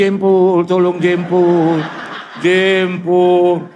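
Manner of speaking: high, slow, laughing plea; old woman pleading. Retold or imitated. Old woman in the crowd begging for her toe, high and pleading. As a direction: beg for help like a squashed granny.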